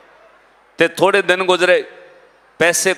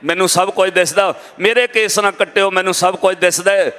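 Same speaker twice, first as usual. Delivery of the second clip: mildly raised mock shouting; retold outcry; 2 semitones higher than usual. Patient refuses to have his hair cut, mildly acted shouting. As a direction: protest urgently, a restrained imitated outcry. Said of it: "ਉਹਨੇ ਉੱਚੀ ਉੱਚੀ ਰੌਲਾ ਪਾਇਆ".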